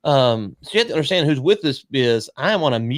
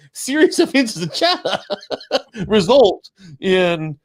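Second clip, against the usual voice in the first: laughing ominously; 7 semitones higher, slower than usual. Real, not acted. Jokes about Chinese law.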